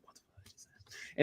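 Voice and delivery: hushed, voiceless aside; barely audible swearing whisper; whispered disbelief. Retold or imitated.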